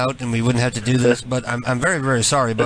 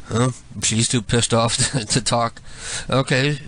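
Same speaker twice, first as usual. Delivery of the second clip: ordinary talk, nothing marked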